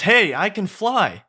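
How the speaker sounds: high, drawn-out cry of delight; amazed excitement. Acted. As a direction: marvel at flying, voice way up high. Donkey discovers he can fly.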